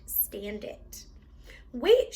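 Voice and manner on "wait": louder, higher call; girl calling after the old woman; cry out. A narrator's reading. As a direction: call out to stop her leaving. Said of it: "she cried".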